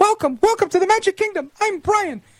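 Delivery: squeaked out at very high pitch. Commentator mocking a media figure's voice on air; Mickey Mouse impersonator voice. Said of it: "sounds like a Mickey Mouse impersonator".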